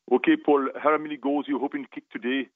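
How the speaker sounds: lightly imitated West Indian lilt; hint of a West Indian accent; attempted West Indian accent. Player quoting his sports psychologist, tentative West Indian accent. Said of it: "trying to do my West Indian accent".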